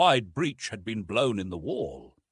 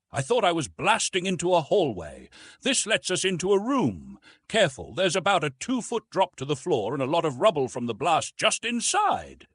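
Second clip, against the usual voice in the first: petulant; 5 semitones higher than usual. Acted. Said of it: "swearing petulantly".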